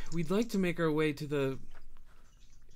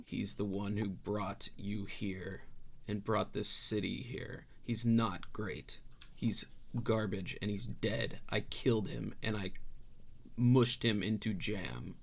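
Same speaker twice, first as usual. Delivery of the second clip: low, slow, softer menace; menacing Rhea; 3 semitones lower, 5 dB quieter than usual. Acted. Rhea threatening the refugee: low, slow and menacing. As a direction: lean in and threaten quietly, slowly. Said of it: "Rhea steps up rather menacingly".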